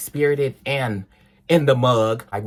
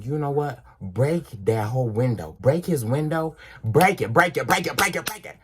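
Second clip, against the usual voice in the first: tempting inner devil; 3 semitones higher than usual. Retold or imitated. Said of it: "the devil on this side, he's saying".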